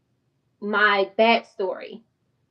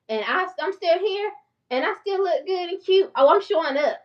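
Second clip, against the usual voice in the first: proud excited boast; 8 semitones higher than usual. Retold or imitated. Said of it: "And I'm like".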